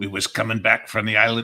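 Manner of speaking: bad put-on sea captain voice. Quoting a movie line to another speaker: Robert Shaw voice. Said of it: "That's not a very good impression".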